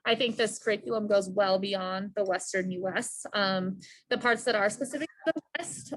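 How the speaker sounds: muffled by a face mask; talking through a mask. Real, not acted. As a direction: speak from behind a mask. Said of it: "I have my mask on with students".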